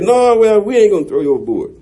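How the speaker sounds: low, fast captain's refusal; lightly voiced low captain. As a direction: brush it off quickly. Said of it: "the captain said".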